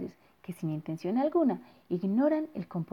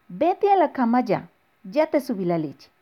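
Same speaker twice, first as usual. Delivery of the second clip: calling upstairs; 4 semitones higher, 5 dB louder than usual. Acted. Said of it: "dijo la mamá de Bernardo".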